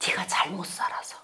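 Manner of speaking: soft whisper of God's rebuke; God whispering a rebuke to his people. Acted. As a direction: whisper it gravely.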